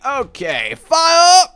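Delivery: sudden high yell of fire; yelling fire at the screen; shouted command. Real, not acted. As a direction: bark the order full volume. Commanding the fireworks attack.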